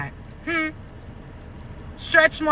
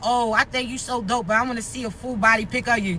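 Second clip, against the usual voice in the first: mocking suitor voice; 3 semitones lower, 4 dB quieter than usual. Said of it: "They talking about".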